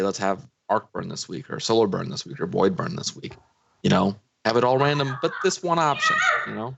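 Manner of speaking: loose, tipsy delivery. Real, not acted. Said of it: "'cause I'm very drunk right now".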